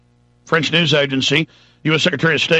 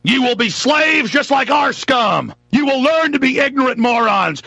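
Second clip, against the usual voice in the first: mock evil overlord; 7 semitones higher than usual. Host voicing the empire to Iran, villainous gloat. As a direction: savour each threat like a villain.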